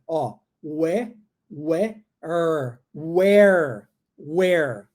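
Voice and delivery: "where" said slowly with a curled r at the end; where with tongue curl. Shown as a demonstration. Teacher drilling "where" with a curled r. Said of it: "Tá vendo como é que dobra?".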